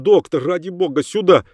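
high-pitched call for help; urgent calling. A narrator's reading. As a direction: call the doctor over desperately. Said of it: "позвал он".

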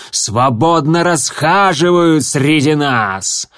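rousing accusing oration; fiery leader speech. Acted. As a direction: stir the crowd against traitors. Starclaw's fiery speech to the clan.

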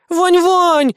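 high, loud call after him; girl shouting after Vanya. Acted. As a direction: yell at his back. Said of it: "закричала мне в спину киса".

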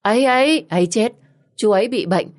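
panicked cry of warning; alarmed shout. Acted. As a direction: shout to stop him going near. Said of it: "bác tôi gào lên".

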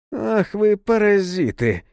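high outraged yell; a shouted curse as he lunges. Acted. Serafim lunging at the monk with an outraged yell. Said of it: "Серафим с воплем".

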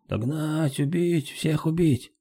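high-pitched savage war cry; hoarse battle yell. A narrator's reading. Sea king shouts at fleeing enemies, hoarse yell. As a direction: scream for blood from afar. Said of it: "хриплый вопль Секонунга".

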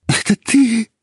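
tearful disbelief. Acted. Heroine sees husband, sobbing.

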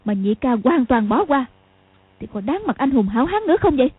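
a touch of heated scorn; angry retort. Acted. Sister angrily shaming her brother before the old monk, mildly heated. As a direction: shame him for his cowardice, indignant. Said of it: "tức giận nói".

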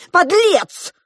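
high, loud outburst; shouted insult. A narrator's reading. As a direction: hurl the insult at him. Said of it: "крикнула Диана". (гневный выкрик)

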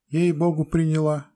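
very high, insistent peasant woman. A narrator's reading. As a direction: swear it's true, way up high. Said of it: "говорила баба".

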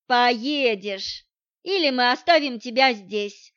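plain reading voice

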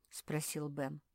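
ordinary delivery, nothing marked

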